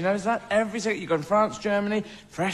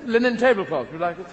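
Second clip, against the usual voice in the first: put-on English accent. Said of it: "Sort of an English Robin Hood".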